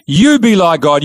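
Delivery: a lighter echo of the serpent's line; serpent repeating. Retold or imitated. Serpent pressing Eve a second time, lightly voiced. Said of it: "Now he says to Eve".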